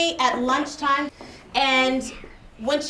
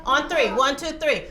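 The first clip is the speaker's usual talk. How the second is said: ordinary talk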